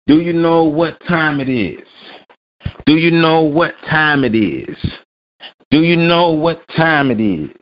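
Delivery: high, slow drawn-out teasing question; high, slow hype call to the audience; hype intro. Pretend. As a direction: stretch it out high like a show opener. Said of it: "It's Friday rant time".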